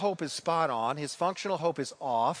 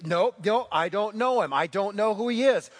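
frantic denial; 3 semitones higher, 6 dB louder than usual. Acted. Peter denying Jesus, acted.

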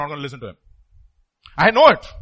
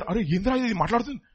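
fast startled Telugu exclamation; 3 semitones higher, 6 dB quieter, much faster than usual. Pretend. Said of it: "I would have said that".

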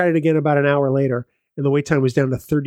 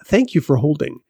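phone menu voice; slower than usual. Retold or imitated. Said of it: "And so they say".

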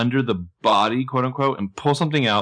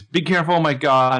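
higher-pitched mock alarm; alarmed cry; 6 semitones higher, 4 dB louder than usual. Recapper imitating Emily at the rescue, mock alarmed cry. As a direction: imitate a worried friend calling a warning.

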